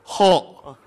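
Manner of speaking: 后 gagged like retching; swollen tongue. Shown as a demonstration. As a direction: choke 后 out thick-tongued. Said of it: "这后怎么跟要吐似的".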